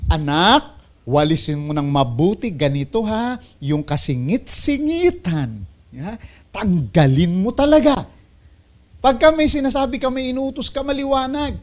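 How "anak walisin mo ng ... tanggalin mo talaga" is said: parent giving orders. Retold or imitated. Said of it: "Parang pag nag-uutos ka sa anak".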